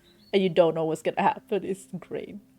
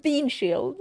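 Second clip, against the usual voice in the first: breaking into laughter; 4 semitones higher than usual. Real, not acted. Game player reading out a silly bean spell, breaking into laughter. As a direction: start reading, then crack up into high squeaks.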